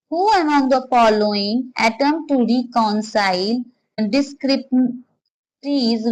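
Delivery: measured, deliberate reading pace; slow question reading. Acted. Teacher reading the exam question slowly to students, measured and deliberate. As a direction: read the exam question slowly and carefully, word by word.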